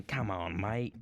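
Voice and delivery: lightly put-on Australian; Australian accent. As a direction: slip into a playful Australian accent. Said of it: "The Australian".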